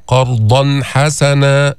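قرضا حسنا with the tanween clearly sounded before ح; slow قرضا حسنا with a clear nun. Shown as a demonstration. Teacher models the clear nun for students. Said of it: "أتينا بالإظهار".

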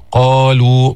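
قالوا with a thin ل and the long u held briefly; light lam, natural madd. Shown as a demonstration. Teacher models قالوا for students. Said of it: "رقق اللام وجيب المد الطبيعي".

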